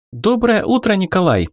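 Доброе утро pitched very high and eager; young reporter greeting live on air, ringing high; ringing, excited reporter. Acted. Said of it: "Звонким, взволнованным голосом поздоровалась корреспондент".

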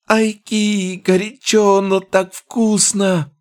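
high, loud goblin yelping. Acted. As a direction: squeal it out, burnt tongue. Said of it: "завопил он".

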